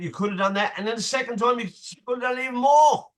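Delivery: rising fatherly lecture ending in a yell; a dad's lecture that swells into shouting; building to a shout. Retold or imitated.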